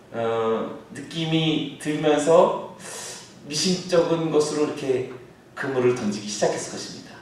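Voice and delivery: ordinary talk, nothing marked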